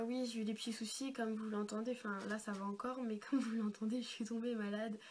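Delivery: hoarse from a cold; speaking with a sore throat; sick voice. Real, not acted. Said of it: "je parle comme un canard".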